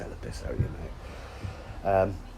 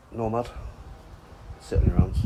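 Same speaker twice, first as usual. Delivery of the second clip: loud call-out; 3 semitones higher, 5 dB louder than usual. Real, not acted. Calling out to mate Nomad.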